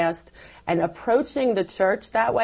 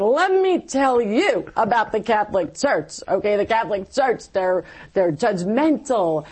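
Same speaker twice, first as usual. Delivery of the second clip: mock rant; 2 semitones higher than usual. Recalling ranting at her class.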